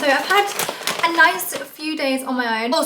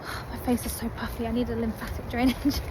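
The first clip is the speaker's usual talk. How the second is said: softer, lazy chill dog voice; voicing the dog; 5 dB quieter than usual. Voicing the relaxed dog on the walk, softer. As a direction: give the dog a softly pampered voice. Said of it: "He was like".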